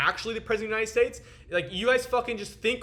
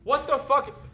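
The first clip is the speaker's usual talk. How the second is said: stunned; 7 semitones higher, 3 dB louder than usual. Real, not acted. Stunned at his own call.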